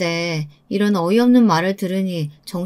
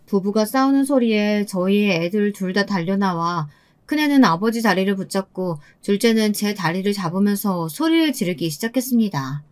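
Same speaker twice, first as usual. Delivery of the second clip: ordinary delivery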